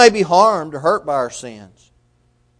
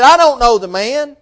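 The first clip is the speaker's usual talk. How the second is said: a mild mock oath, a bit higher and louder; cursing denial; 5 semitones higher, 5 dB louder than usual. Peter denies knowing Jesus to the crowd, mock swearing. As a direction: spit out the denial like a cornered man swearing. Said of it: "with cursing and swearing".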